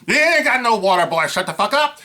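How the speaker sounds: mocking redneck. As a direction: taunt him like a cruel good old boy. Trucker mocks jogger asking water.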